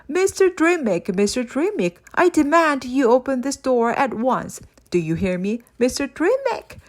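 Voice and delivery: spat demand. Acted. Locked-in Creeper spitting demands at Father Christmas through bars. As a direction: hammer on the door with your voice. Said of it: "spat Mister Creeper".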